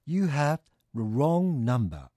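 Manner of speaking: very slow, evenly spaced English; drawn-out, word-by-word teaching delivery; repeat-after-me model. Shown as a demonstration. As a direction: say it slowly for learners to copy. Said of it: "続けて言ってみてください".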